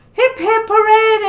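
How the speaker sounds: high, loud hooray; jubilant cheer. Acted. Fish freed from the net cheer the shark, jubilant. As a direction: cheer like a rescued crowd.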